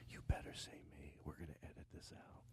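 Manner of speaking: low whispered mock threat; whispered retelling. Host re-enacts whispering to the comic during the bit. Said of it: "Then I do this bit where I went".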